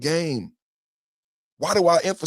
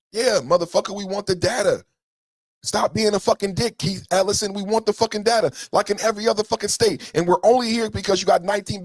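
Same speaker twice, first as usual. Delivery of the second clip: raised, heated voice swearing at the official; angry rant; 6 semitones higher than usual. Real, not acted. Ranting at Keith Ellison, angry and raised. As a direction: let the anger rise up higher.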